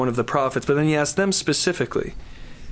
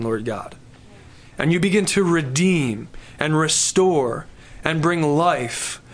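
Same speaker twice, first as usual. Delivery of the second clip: closing prayer. Acted. Pastor praying over the congregation at service's end, earnest prayer. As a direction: pray it over the room with conviction.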